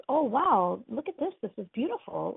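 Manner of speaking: happily amazed, acting out a quote; excited wonder. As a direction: marvel at it, pitch lifting. Fisherman marvels at new cottage.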